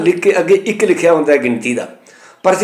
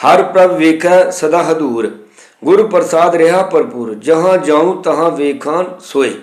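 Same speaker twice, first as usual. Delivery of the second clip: scripture recitation; slower than usual. Shown as a demonstration. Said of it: "ਇਹ ਅਸੀਂ ਇਸ ਤਰ੍ਹਾਂ ਕਰਨੇ".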